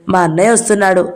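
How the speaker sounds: fast, hurried, alarmed whisper-free rush; flustered warning. Acted. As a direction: blurt it out in a fluster as brother approaches. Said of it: "కంగారు పడిపోతూ". (కంగారుగా, గబగబా)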